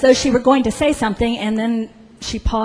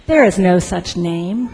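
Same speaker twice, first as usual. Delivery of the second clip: mild, measured refusal; acted firm disapproval; disapproving official; 3 semitones lower, 3 dB louder than usual. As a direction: reject it as an official would. Registrar refuses, echoing the clerk.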